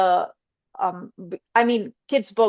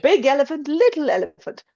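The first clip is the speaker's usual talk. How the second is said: put-on reading to toddler; 6 semitones higher, 3 dB louder, faster than usual. Reading baby book aloud.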